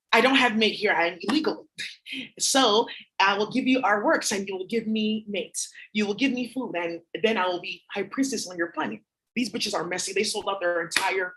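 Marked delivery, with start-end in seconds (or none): 0.1-9.0 mock alien priestess. Voicing alien woman, accented.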